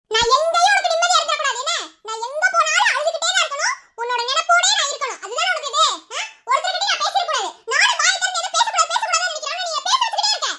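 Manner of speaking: high-pitched, exasperated complaint; aggrieved tirade. Acted. Woman confronting the man who won't leave her be, exasperated. Heated personal quarrel with Hariharan.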